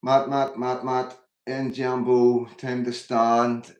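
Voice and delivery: loud, drawn-out call to the crowd; loud rallying call. Real, not acted. Streamer rallying chat viewers, loud slowed-down rallying call. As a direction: call them to stand up with you.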